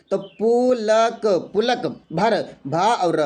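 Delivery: "पुलक" drawn out, syllable by syllable; slow syllable demo. Shown as a demonstration. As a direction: break "पुलक" and "भर" into syllables slowly. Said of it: "लिखा है पुलक". ("पुलक" को धीरे-धीरे तोड़कर बोलें)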